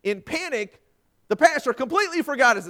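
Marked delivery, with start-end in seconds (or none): none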